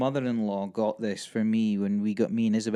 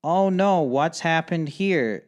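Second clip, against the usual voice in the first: higher-pitched mock concern, drawn out at the end; mock-concerned official; 3 semitones higher, slower than usual. Border officer finding damaged visa, mock-concerned. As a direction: imitate an official feigning concern.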